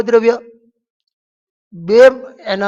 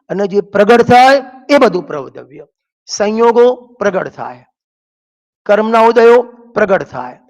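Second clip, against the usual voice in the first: rising, louder sermon voice pressing each point home; forceful preaching; 4 dB louder than usual. Acted. Preacher hammering his point to the congregation, forceful and louder.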